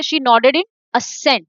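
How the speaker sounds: very slow, word by word; slow read-aloud. Shown as a demonstration. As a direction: read the sentence out slowly for students. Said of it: "teacher reads the answer sentence". (बहुत धीरे पढ़कर सुनाना)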